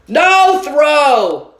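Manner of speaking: put-on loud, high little-kid refusal; a toddler shouting no; stubborn toddler shout; loud toddler protest. A narrator's reading. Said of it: "Fudge said very loudly".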